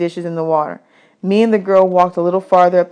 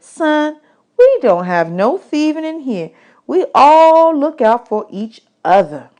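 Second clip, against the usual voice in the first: higher, mock-grand woman's voice; woman at camp; 7 semitones higher than usual. Camp woman teasing boys about their tin china, higher. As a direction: serve it like fine china, teasing.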